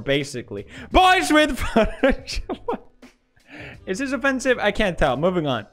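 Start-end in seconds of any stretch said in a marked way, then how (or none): 0.9-2.8 hype announcement. Acted. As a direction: hype it up like a big reveal. Hyped meme announcement.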